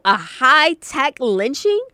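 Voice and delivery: slow, weighty quote; quoted slowly. Retold or imitated. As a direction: lean on each word. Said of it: "and I quote".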